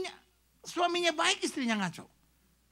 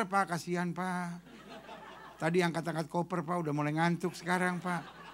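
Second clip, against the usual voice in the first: pleading quietly; 7 semitones lower, 6 dB quieter than usual. Retold or imitated. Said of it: "Seperti muka saya".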